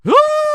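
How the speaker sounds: sharp high scream of alarm; sudden yelp. Real, not acted. Streamer shrieking as the cat jumps. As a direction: let out a startled shriek.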